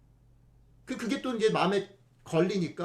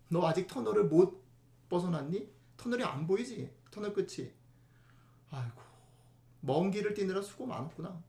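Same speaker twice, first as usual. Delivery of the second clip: encouraging, consoling. Shown as a demonstration. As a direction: gently comfort someone worn out. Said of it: "격려와 위로를 하기 위해서 쓰여진 거예요".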